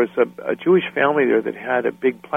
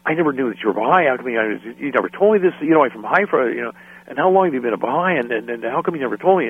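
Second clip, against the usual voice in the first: rapid-fire questions. Retold or imitated. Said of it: "like a shotgun, fifty questions".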